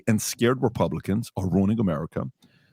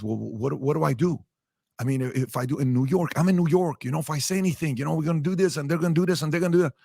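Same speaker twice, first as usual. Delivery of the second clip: higher, fast, flustered excuses; a higher, rushed, anxious mock of the scared businessman; imitating nervous excuse; 6 semitones higher than usual. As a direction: rattle off worried excuses, pitch climbing. Scared guy explains his fear.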